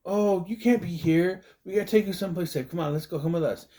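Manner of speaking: put-on a stranger pleading with a lost girl; urgent stranger woman. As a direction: hustle the child away to safety.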